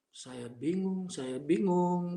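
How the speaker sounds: slow, stretched-out repetition; drawn-out bewilderment. Retold or imitated. Man retelling days of not knowing what to do, slow bewilderment. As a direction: drag each word as if lost in thought.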